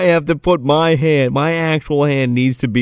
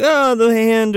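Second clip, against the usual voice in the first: much higher frightened cry; mock panic; 10 semitones higher than usual. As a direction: shriek in mock terror. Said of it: "everybody's like".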